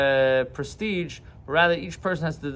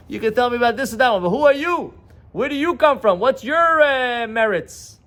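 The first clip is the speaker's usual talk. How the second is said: much higher, louder, fast demanding questions; challenging questions; 7 semitones higher, 4 dB louder than usual. Acted. Rabbi challenges the congregation on their own merits, rising and loud. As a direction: press them hard for who they really are.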